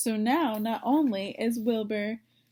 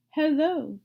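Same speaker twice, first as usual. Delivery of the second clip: higher, louder sheep greeting; old sheep voice; 5 semitones higher, 5 dB louder than usual. Acted. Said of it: "she said".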